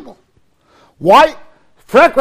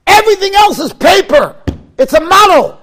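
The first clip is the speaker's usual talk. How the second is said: loud, high, slow declaring; rabbi's proclamation; 8 semitones higher, 7 dB louder than usual. Retold or imitated. Quoting Rav Gifter to the listeners, a loud slow proclamation. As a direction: proclaim it like a rabbi thundering from the pulpit. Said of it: "he said".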